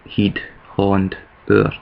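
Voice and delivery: "heed, Holland, oor" said as Glaswegian heed, haund, oor; slow Glaswegian "heed, Holland, oor", with ee, aw and oo vowels; Glaswegian pronunciation. Shown as a demonstration. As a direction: list "heed, Holland, oor" slowly in Scots, Holland as one-syllable "haund". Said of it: "Glaswegian mannerisms in my speech".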